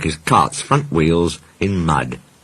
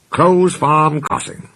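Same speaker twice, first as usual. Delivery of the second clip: happy chunting; 9 semitones higher, slower than usual. A narrator's reading. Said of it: "he chunted happily".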